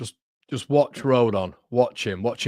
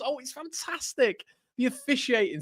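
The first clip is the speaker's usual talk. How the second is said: sarcastic; 13 semitones higher, 4 dB quieter than usual. Real, not acted. Sarcastic about the refereeing.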